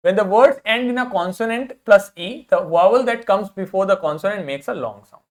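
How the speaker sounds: very slow, word by word English rule; slow rule reading. Shown as a demonstration. Teacher reading an English spelling rule to students, very slowly. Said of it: "teacher reading rule slowly".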